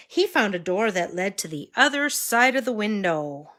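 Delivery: put-on storybook voice for little kids; reading to a toddler. A narrator's reading. Reading Curious George aloud.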